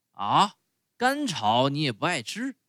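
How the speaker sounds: 主人一声恼火的质问，稍微提高音量; 带着怒气、略大声地质问驴子; 生气地叫. Acted. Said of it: "主人生气地叫起来". (主人对不吃草的驴子生气地叫)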